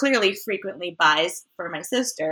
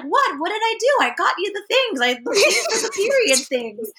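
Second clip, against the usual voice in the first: indignant defense; 11 semitones higher than usual. Retold or imitated. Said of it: "my brother's like".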